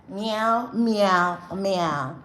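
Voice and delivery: playful meowing like a cat; cat meows. Pretend. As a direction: meow three times, catlike. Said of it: "said the cat".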